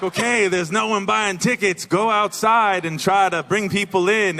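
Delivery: bossy theater management. Retold or imitated. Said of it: "And then they were like".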